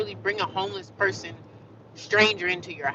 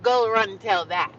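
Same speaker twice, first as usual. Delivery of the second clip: put-on London accent; slower than usual. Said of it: "With the London accent".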